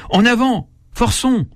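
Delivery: high, mock rallying cry; enraged cry. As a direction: urge the crowd forward, high-pitched. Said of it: "criaient les enragés". (cri d'enragé joué, voix très aiguë)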